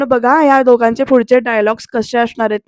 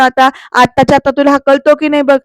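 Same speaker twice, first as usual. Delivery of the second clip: louder threat; angry threat; 5 dB louder than usual. Retold or imitated. Pruthvi threatening to throw Aarti out, loud. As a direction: warn her you mean it.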